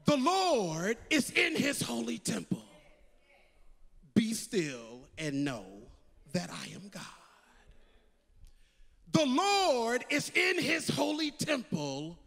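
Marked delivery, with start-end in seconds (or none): 4.1-7.0 calm voice of God. Acted. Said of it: "the word of the Lord comes to us and says". 9.1-12.2 proclaiming. Acted. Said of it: "preacher proclaims the verse".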